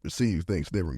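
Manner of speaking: hiccuping mid-sentence; hiccups. Real, not acted. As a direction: talk through the hiccups. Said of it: "got the hiccups".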